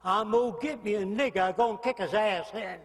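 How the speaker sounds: mock redneck Southern accent. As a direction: put on an uneducated Southern accent. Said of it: "So you might even talk like this".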